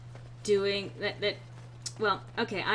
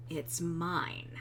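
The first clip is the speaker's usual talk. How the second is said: mimicking Sten; 5 semitones lower, 8 dB quieter than usual. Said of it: "simplicity of Sten going".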